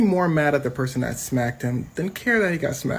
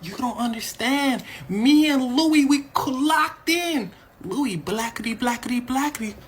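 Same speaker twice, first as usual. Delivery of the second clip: much higher, goofy and cartoonish; mock Chris Rock; 7 semitones higher than usual. Narrator imitating Chris defending himself, high and goofy. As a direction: squeak it like a giddy cartoon. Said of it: "Chris goes".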